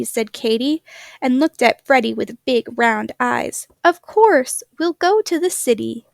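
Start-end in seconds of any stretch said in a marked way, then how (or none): 3.8-6.0 excited. Acted. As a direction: burst out with a bright new idea. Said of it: "Katy was so excited".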